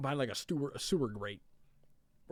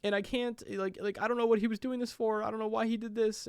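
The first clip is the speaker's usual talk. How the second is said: high, put-on girlfriend voice; imitating Mary; 10 semitones higher than usual. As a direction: voice Mary much higher, confessing. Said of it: "And she's like".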